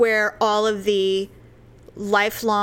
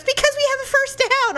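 high, raised crowd voice; mock shouted reply. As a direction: holler the answer back over the noise. Fan shouts back the answer.

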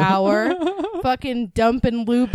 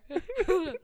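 making fart noises; 8 semitones higher, 9 dB quieter than usual. Pretend. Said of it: "Let me do better".

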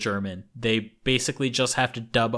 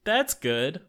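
forced politeness; 7 semitones higher, 5 dB louder, much slower than usual. Retold or imitated. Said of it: "be very polite and be like".

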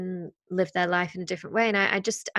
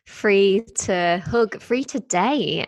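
slow, loud and longing; excited; 2 semitones higher, 6 dB louder, slower than usual. Real, not acted. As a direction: stretch each freedom out with relish. Excited wishful list of freedoms.

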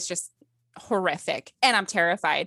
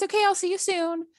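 imitating the doctor; 11 semitones higher than usual. Doctor quoted on the phone.

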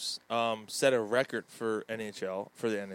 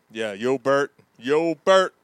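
Paulie impression; 12 dB louder, slower than usual.

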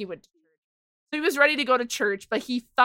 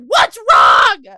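high, loud imitation of alarmed mom; alarmed shout; 10 semitones higher, 14 dB louder than usual. Mom woken by screaming child, high alarmed shout. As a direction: yell it like a startled parent.

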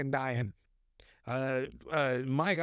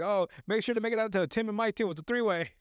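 gloating; 6 semitones higher than usual. Retold or imitated. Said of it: "He's like".

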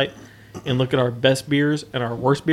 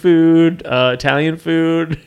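Talladega Nights character; 3 semitones higher, 6 dB louder than usual. Retold or imitated. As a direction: bellow it like Ricky Bobby. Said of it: "he's like".

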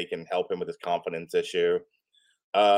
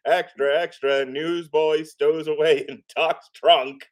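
higher, drawn-out headline cry; newsboy call; 6 semitones higher, slower than usual. Acted. Reader announcing a stowaway as a newsboy, street-hawker call. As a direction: call it out like a paperboy.

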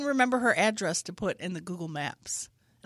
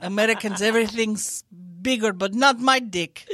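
mock loud rant; 5 dB louder than usual. Igor ranting.

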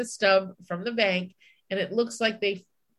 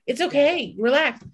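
self-soothing; 6 semitones higher, 3 dB louder than usual. Retold or imitated. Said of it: "you know?".

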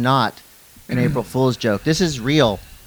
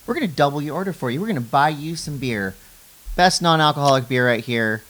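ad read; 4 dB louder than usual. Acted. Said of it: "through the Hanson Surfboards ad read".

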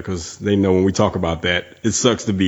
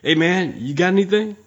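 higher, furtive drunk-guy imitation; 9 semitones higher than usual. Drunk guy asking a stranger for weed, mock drunk guy. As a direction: sound out a stranger like a tipsy bro. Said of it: "next to the drunk guy".

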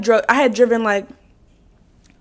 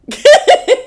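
high, loud burst of laughter; 13 semitones higher, 6 dB louder than usual. Real, not acted. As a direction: crack up at your own story. Cracks up while retelling.

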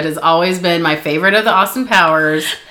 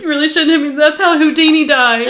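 higher, laughing quote; movie quote voice; 6 semitones higher than usual. Retold or imitated. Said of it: "He's like".

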